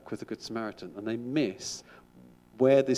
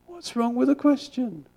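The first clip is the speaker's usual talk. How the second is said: much higher, louder, slow rabbi punchline; wry rabbi; 7 dB louder than usual. Retold or imitated. Rabbi answering his disciple's complaint, slow sly punchline. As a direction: land the joke as the deadpan-turned-sly rabbi. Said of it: "And the rabbi says".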